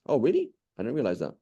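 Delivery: mild surprise. Acted. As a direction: play a listener mildly surprised by news. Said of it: "you're surprised by something".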